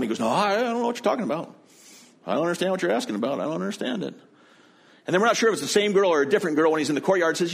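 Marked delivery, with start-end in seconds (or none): 0.2-4.1 fast, rushed denial, higher; panicked denial. Retold or imitated. Peter caught by the gate girl, rushed panicked denial. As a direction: blurt the denial out fast, scrambling.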